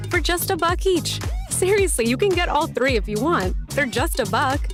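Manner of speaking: high, punchy sales pitch; hard sell ad. Acted. Wendy's ad pitching dollar biscuits.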